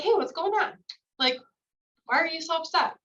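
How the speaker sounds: teacher showing how to greet an upset learner, friendly and calm; calm friendly check-in. Shown as a demonstration. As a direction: ask kindly what's wrong. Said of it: "remain calm and friendly".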